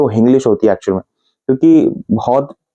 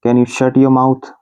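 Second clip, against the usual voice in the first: drawn out syllable by syllable; very slow; much slower than usual. Shown as a demonstration. Teacher repeating the phrase very slowly for students. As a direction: stretch every word for learners to copy. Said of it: "teacher repeats it slowly".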